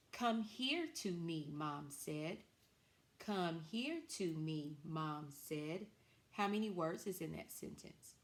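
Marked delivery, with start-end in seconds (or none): 0.1-2.4 "Come here to me" read slowly and higher, word by word; slow, higher model reading. Shown as a demonstration. Teacher reading the class sentence slowly and higher. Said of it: "our sentence that we're going to use today is this". 3.2-5.9 "Come here to me" read slowly at normal pitch; slow reading, usual pitch. Shown as a demonstration. Teacher rereading the class sentence slowly at normal pitch. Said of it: "our sentence that we're going to use today is this".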